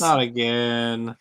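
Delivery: slow, drawn-out playful lament; mock dismay. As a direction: draw it out in hammed-up dread. Mock dismay at predicted topic.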